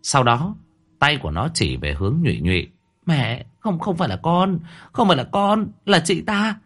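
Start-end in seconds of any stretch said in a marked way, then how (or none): 3.1-6.6 much higher, rising desperate denial; panicked denial. A narrator's reading. Daughter desperately denying to her mother. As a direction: scramble to shift the blame.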